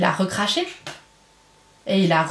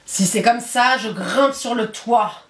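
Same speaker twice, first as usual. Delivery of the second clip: roaring wolf; slower than usual. Acted. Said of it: "rugit le loup".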